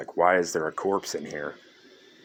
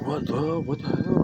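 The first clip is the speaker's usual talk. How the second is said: high, breathy cry of disbelief, near a whisper; shocked what the hell; 10 semitones higher than usual. Retold or imitated. Cop reacting to a sudden shooting, stunned high whisper. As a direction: gasp it out like a startled cop.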